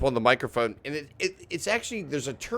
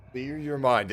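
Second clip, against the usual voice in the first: mock meditation voice; slower than usual. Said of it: "that A S M R".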